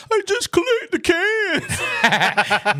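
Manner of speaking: very high, slow, laughing cartoon voice; Homer Simpson impression. Retelling a Simpsons flashback, laughing through a high Homer voice. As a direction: stretch it out high while cracking up. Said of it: "Homer Simpson got caught drinking some beer".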